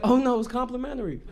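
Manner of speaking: loud, high, sing-song mock hospitality; hammed-up chirpy attendant offering a freebie; mock cheerful server. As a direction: conductor cheerfully pushing harassment on a rider.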